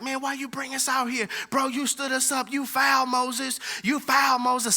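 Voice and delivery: complaining crowd. Retold or imitated. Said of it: "everybody crying like".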